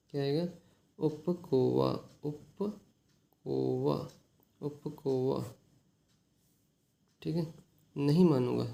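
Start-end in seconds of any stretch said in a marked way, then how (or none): 1.0-5.5 stretched very slowly, syllable by syllable; slow drawn-out repeat. Shown as a demonstration. Teacher drilling a Telugu word for students, very slow. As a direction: draw the word out for the class.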